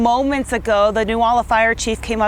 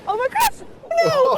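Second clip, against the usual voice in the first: surprised; slower than usual. Real, not acted. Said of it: "sledding down a hill".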